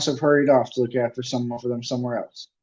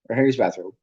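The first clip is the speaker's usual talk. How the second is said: plain reading voice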